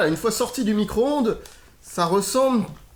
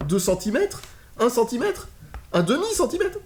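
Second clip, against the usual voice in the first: rising disbelief; 5 semitones higher than usual. Real, not acted. Shocked at the thin lasagna.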